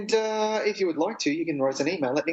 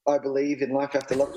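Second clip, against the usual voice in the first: Cher robot voice. Retold or imitated. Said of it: "Little, little robot voice".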